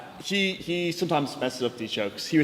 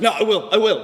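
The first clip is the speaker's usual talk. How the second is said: stubborn dad; 6 semitones higher, 6 dB louder than usual. Retold or imitated. Dad stubborn in car argument.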